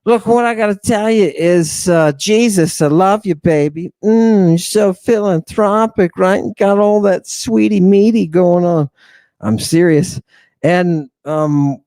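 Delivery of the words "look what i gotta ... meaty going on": higher mock-sweet Philip voice; a hint of a crooning apostle; voicing Philip. Lecturer voices Philip praising Jesus, mock sweet and high. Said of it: "he says".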